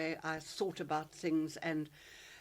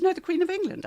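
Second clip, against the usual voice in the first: retold exasperated correction; 12 semitones higher, 8 dB louder, faster than usual. Retelling headmistress correcting her.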